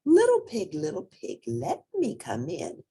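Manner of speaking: high sing-song wolf call at the door. A narrator's reading. Wolf sweet-talking the little pig at the door. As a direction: coax the pig to open up. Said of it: "the wolf knocked ... and said".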